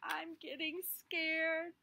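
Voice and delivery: slow, worried confession; scared seed. Acted. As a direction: admit fear. Seed afraid of light.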